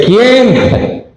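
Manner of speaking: put-on high, curious girl's voice; girl at the door. Rode asking who knocks at the door, high girlish call. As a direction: pitch it up like a young girl calling through the door.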